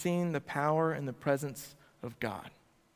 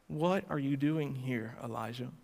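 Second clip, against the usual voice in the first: gentle voice; 2 semitones lower, 4 dB quieter than usual. Acted. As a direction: ask it tenderly, like a quiet call. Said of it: "In a gentle voice".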